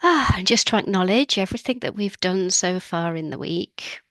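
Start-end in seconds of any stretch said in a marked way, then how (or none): 0.0-0.3 audible sigh, higher and louder at the onset; demonstrative sigh. Shown as a demonstration. Host invites listeners to pause midweek, sighing out loud. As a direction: let out an open "ah" sigh. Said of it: "just to take a sigh".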